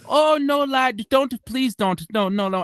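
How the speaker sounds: lightly voiced old men, high start then easing; a touch of mock fuss, refusing; protesting old Irishmen. Old men at the bar refusing a free round.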